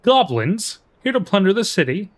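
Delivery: lightly Scottish NPC voice; Scottish accent. Acted. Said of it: "a terrible Scottish accent".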